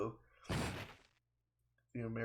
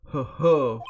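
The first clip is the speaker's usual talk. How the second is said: villain chuckle; 15 dB louder than usual. Acted.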